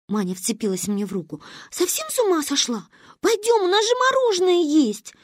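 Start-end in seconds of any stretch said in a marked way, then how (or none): 1.7-5.1 put-on high-pitched little girl arguing; indignant child. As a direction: protest like an exasperated young friend. Manya argues with her friend.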